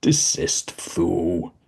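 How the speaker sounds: a touch of a harsh bark; mild bark. Acted. Visitor barks an order at Dozzie, mildly harsh. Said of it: "he barks at her".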